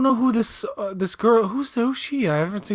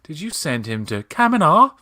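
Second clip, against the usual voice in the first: put-on Mid-Atlantic accent; 4 semitones higher, 4 dB louder than usual. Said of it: "It's a consistent accent".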